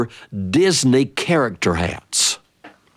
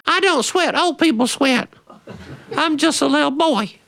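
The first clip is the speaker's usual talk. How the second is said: put-on much higher, childish protest; indignant little boy. Little brother protesting to sister, high indignant child voice. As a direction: insist like an offended small boy.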